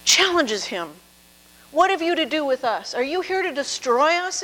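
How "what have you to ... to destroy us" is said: mild demon cry. Retold or imitated. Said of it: "it cries".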